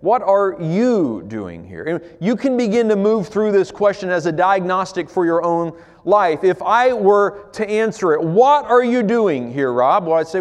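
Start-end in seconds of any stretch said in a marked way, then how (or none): 0.0-1.8 God asking again. Acted. God repeats question slowly. 8.2-10.1 God's questioning voice. Acted. God asking the preacher.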